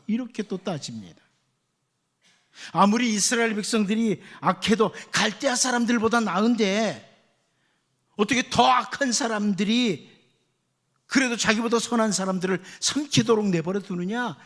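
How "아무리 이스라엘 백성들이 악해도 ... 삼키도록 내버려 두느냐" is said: arguing with God. Retold or imitated. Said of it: "이러면서 선지자 하박국이 따지죠".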